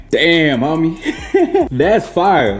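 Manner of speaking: delighted high praise after a bite; excited. Real, not acted. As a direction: rave about the taste.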